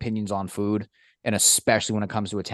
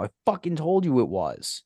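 higher gloating retort; mock told-you-so; 6 semitones higher than usual. Gloating to a friend who finally liked the sandwich, in a higher told-you-so. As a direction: rub it in.

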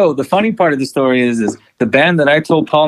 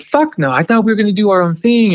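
retold anger; 9 semitones higher than usual. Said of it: "and I get mad".

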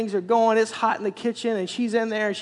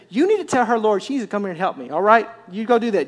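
sassy finger snap. Acted. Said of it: "three circles and a snap and a hip".

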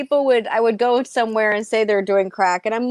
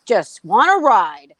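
exasperated dad; slower than usual. Retold or imitated. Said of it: "he's like".

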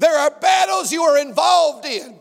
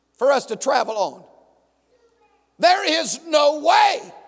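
pleading Moses. Acted. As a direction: argue with God in mock panic.

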